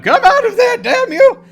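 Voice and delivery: high, full-force furious yell; bellowed command at the top of the voice; screaming out. Acted. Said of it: "screaming out".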